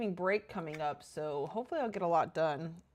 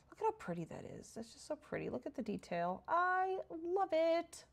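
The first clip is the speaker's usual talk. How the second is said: gushing adoration; 9 semitones higher, 5 dB quieter than usual. Real, not acted. Player admiring a pretty detail, gushing softly. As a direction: coo over it, stretching the last words.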